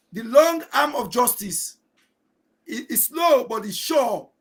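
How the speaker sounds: slow, deliberate stress on "long arm of justice"; measured, emphatic political warning. Real, not acted. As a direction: weigh out "slow" and "sure", with pauses between phrases. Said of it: "I must emphasize".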